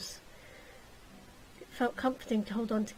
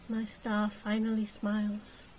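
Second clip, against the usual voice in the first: tender. Acted. Gilly tender to her.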